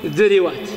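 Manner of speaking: ذروات said dhiriwāt, short i after the r; disallowed copied vowel. Shown as a demonstration. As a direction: repeat the i on the r of ذروات. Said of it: "فلا يقال فيه". (ذروات بكسر الراء إتباعًا للذال)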